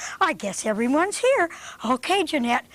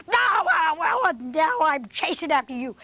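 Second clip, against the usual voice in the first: gruff mock barks with a gloating laugh; barking dog; 5 semitones higher than usual. Doggone dog gloats over the bunny, barking. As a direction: play a smug dog barking.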